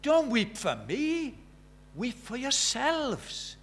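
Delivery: slow, grave words to the weeping women; solemn Jesus. Acted. Jesus answers the crying women, slow and solemn. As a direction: speak each word slowly as Jesus on the way to the cross. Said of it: "And Jesus said".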